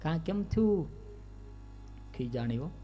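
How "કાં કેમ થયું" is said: teasing. Acted. Kano teasing aunt.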